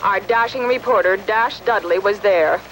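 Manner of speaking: newsreader heard through a radio; radio news. Acted. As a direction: read it like a radio bulletin over the air.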